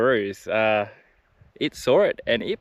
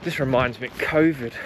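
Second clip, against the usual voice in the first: muffled behind a dust mask; through a face mask. Real, not acted. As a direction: talk through a respirator mask. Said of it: "So sorry about the voice".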